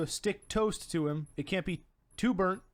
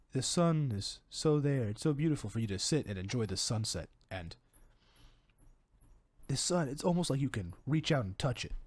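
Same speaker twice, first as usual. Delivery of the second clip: mock-tranquil, lowered voice; soothing monologue; 4 semitones lower than usual. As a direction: play a serene guide admiring the sunset. Game character narrates calming sunset.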